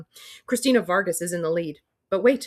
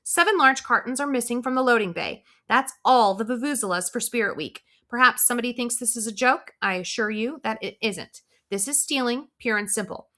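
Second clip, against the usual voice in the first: higher, tense PA announcement; stressed principal; 5 semitones higher than usual. Acted. Principal warning the school over the PA about the theft, tense and high. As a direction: keep the principal's pitch up and tight. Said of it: "like she's under stress".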